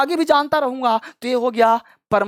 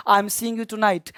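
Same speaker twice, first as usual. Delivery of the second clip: "I am seeing you tonight" read very slowly, word by word; slow dictated example; much slower than usual. Shown as a demonstration. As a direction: dictate the sentence slowly to students. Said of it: "जैसे हमने कहा".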